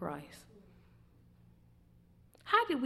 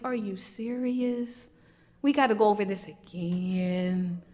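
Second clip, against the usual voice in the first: frustrated God. Retold or imitated. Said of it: "to pure frustration".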